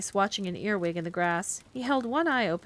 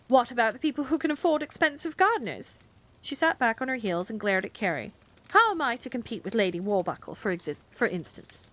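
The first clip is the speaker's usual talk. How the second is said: indignant rant; 3 semitones higher than usual. Acted. Miss Price rants savagely.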